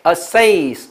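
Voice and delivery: assess said slowly with the stressed vowel stretched long; careful, lingering assess; drawn-out vowel. Shown as a demonstration. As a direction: model assess for a class, lengthening its second syllable. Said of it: "这个A是拉长音的".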